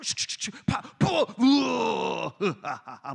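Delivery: whooshing sling, popping hit, groan and laugh; hammed-up storybook sound effects; acted slingshot battle noises. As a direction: play out David's stone striking Goliath in noises. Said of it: "뭐 이런 거 이렇게 다윗 읽어주고".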